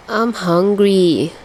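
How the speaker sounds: slow, whiny complaint; complaining. Acted. Dazai complaining to friends at the bus station, slow and whiny. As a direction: drag it out like a hungry kid. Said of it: "he complained".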